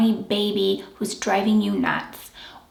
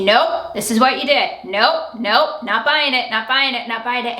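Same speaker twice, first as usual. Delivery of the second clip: louder, insistent repeated refusal; firm talk-over; 4 dB louder than usual. Shown as a demonstration. Coach demonstrating talking over a narcissist, louder. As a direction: cut them off and repeat it. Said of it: "you talk over them and you say".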